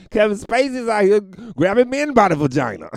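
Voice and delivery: laughing out a retold punchline; quoting Chappelle. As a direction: blurt the joke while cracking up. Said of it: "Oh, he's like".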